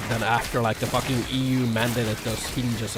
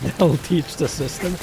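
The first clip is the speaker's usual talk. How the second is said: slow, louder, hammed-up smug declaration; mock triumphant; 4 semitones higher, 5 dB louder, slower than usual. Streamer mocking his own petty protest, slow smug proclamation. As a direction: savour it like a grand victory.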